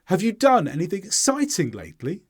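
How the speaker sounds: learner-friendly question, "lately" rising at the end; question intonation with stressed content words. Shown as a demonstration. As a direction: stress "done", "exciting", rise on "lately". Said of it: "use our first question as an example".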